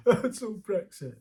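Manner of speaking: slow, drawn-out mock certainty; mock know-it-all. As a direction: lay it on slowly like it explains everything. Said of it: "And it's just like".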